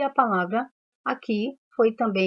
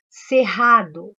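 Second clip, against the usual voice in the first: "Cerrado" drawn out slowly and louder; slow, louder demo word; 7 dB louder, much slower than usual. Shown as a demonstration. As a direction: stretch "Cerrado" so pupils hear the RR. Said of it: "tem dois R's". ("Cerrado" falado devagar e mais alto, destacando o RR)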